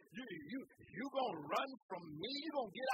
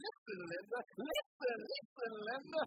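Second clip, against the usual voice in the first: put-on nagging little boy; 3 semitones higher than usual. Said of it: "YouTube commercial".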